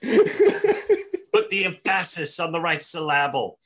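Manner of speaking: slow, loud, over-careful syllables; mock elocution coach. Friends mocking pronunciation lessons, over-emphatic. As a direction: lean heavily on every syllable as a joke.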